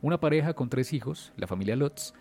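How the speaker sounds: dramatic storyteller with measured pauses; suspense story narration. A narrator's reading. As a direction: tell it like a true horror tale, punching the openings of phrases. Tells a horror story.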